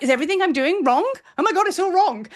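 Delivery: high, mock-panicked wail; retold freak-out. Retelling to viewers how she panicked over her work, high mock panic. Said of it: "I started to freak out".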